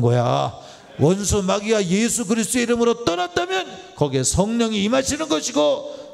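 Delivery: fervent preaching, pitch climbing to a peak; preaching at full force. Acted. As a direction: proclaim it from the pulpit, building. Preacher builds to a climax.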